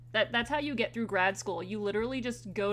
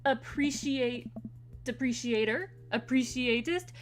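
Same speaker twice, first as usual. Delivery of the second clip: Joseph voice. Acted. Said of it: "I need to do my Joseph voice".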